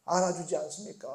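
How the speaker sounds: whiny complaint slowing on 왜 나를; 알아달라고 투정하는 흉내; mock whining. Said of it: "라고 말을 하고 있다는 겁니다".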